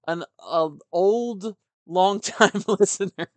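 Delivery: laughing self-correction. Real, not acted. Host correcting himself about the listener's age, laughing. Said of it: "I shouldn't call him old".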